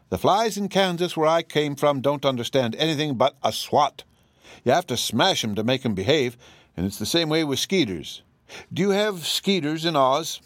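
a hint of a plain-spoken Kansas farm wife; folksy Aunt Em. Aunt Em tells the Oz folk about Kansas flies, lightly voiced.

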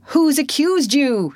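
high, loud challenging shout; sharp shout. A narrator's reading. Voice from the crowd challenging Potter, loud shout. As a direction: fling the question at him. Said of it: "shouted a voice".

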